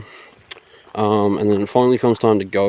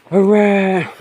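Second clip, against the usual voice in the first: much higher, louder laughing hooray; sarcastic laughing hooray, higher and louder; mock cheer; 11 semitones higher, 5 dB louder than usual. Mock cheer at news of sex.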